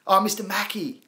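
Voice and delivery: a light high cartoon Mister Mackey impression. Joking to chat about South Park, a light high cartoon voice.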